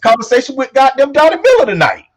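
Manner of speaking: high, rousing show kickoff; hyped-up announcement. Real, not acted. Host kicking off the conversation with guest, hyped up. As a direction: call it out high, building loud to the guest's name.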